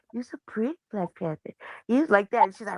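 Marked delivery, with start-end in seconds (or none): 0.1-1.5 put-on soft sweet talk to a baby cat; softer, cooing praise; talking low. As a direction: coo it quietly like to a baby. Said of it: "talking to her real low".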